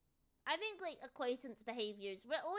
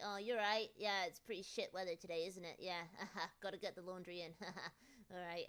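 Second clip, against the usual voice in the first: autopilot small talk; 5 semitones lower, 3 dB quieter than usual. Retold or imitated. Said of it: "we're very good at talking about the weather".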